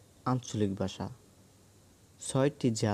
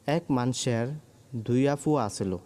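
Sylheti dialect; 2 semitones higher than usual. Shown as a demonstration. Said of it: "সিলেটের আঞ্চলিক ভাষা হলো".

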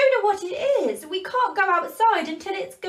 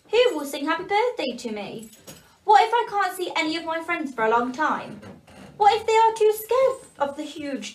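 higher, rising distress; crying; 4 semitones higher, 3 dB louder than usual. Acted. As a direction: plead tearfully as a small elf. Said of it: "cried the little elf".

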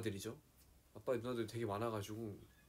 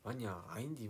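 lightly imitated Jeolla intonation; Jeolla dialect. Shown as a demonstration. Showing fans Jeolla replies, light Jeolla accent. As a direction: say it with a touch of Jeolla. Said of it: "막 이러면서 막".

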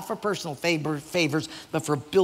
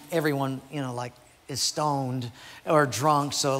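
usual speaking voice

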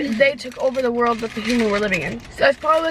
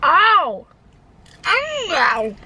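speaking through fingers; muffled behind hand; 6 semitones higher than usual. Real, not acted. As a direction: hand covering mouth. Seen 0: Unclear which speaker; both hold hands over mouths during the ows.

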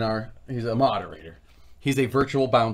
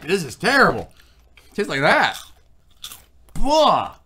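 mock disgust; 4 semitones higher, 5 dB louder than usual. Acting out others disliking bagels.

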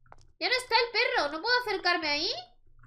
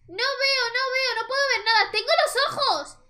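a hint of a high, sing-song blind girl; half-sung plea of the blind girl; lightly voiced crying girl; 5 semitones higher than usual. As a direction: give the lost girl's plea a light lilt.

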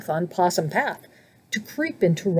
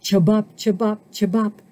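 croaking frog. Acted. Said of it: "croaked Frog".

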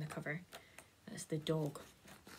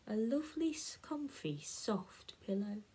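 dreamy whisper. Acted. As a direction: sink into the words like a pillow. Dream of a soft pillow.

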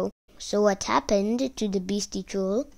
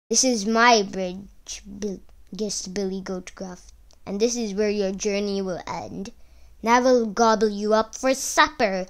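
troll voice. Acted. Troll threatens biggest goat.

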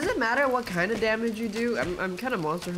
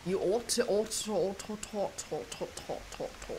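each repeat softer until whispered; fading to a whisper; 6 dB quieter than usual. Real, not acted. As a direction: trail off into a whisper. Repeating phrase, fading to nothing.

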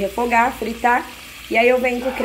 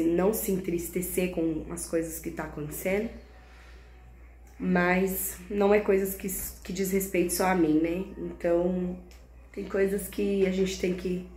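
sad and quiet; 6 dB quieter than usual. Real, not acted. Sad quiet closing talk.

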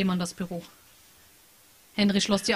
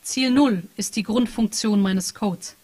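AI chat program; 4 dB louder, slower than usual. Acted. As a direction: read it like an emotionless program reporting data. AI program answers. (leicht angedeutete Maschinenstimme, sachlich und gefühllos)

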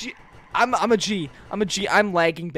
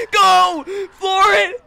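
high, loud getaway yell; urgent shout; 11 semitones higher, 10 dB louder, much slower than usual. Real, not acted. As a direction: bellow the order to drive. Fleeing in the car.

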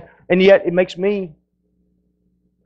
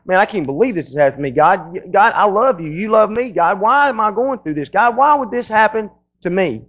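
pity party; 3 semitones higher than usual. Retold or imitated. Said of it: "we call the pity party".

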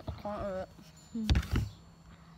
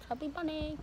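cheeks stuffed with grapes; mumbled through grapes; mouth full; 3 semitones higher, 7 dB quieter, faster than usual. Real, not acted.

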